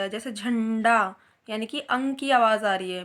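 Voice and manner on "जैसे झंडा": झंडा said slowly with a clear nasal न sound; nasal demo, slow. Shown as a demonstration. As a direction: let झंडा ring through the nose. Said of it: "नाक द्वारा होता".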